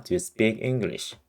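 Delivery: slow model question. Shown as a demonstration. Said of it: "이렇게 느낌을 가져가 보세요".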